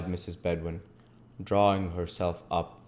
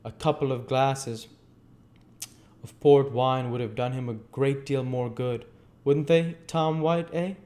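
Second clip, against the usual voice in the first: put-on higher, louder old gentleman voice; hearty old gentleman; 7 semitones higher, 6 dB louder than usual. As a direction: recommend it heartily, then check with the boy.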